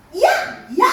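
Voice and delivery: "이야" spoken as i gliding into a; blended-vowel demo. Shown as a demonstration. Teacher showing how two vowels combine, "이야" with both heard. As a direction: show "이야" with both vowels audible. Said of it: "이렇게 해가지고".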